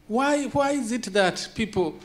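real excitement breaking through as the questions build; heated, insistent repeated why; getting excited. Real, not acted. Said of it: "sorry, I'm getting a little bit excited".

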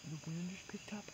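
hushed hunting whisper. Real, not acted. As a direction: keep it to a breathy hush. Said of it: "I'm trying to hunt here".

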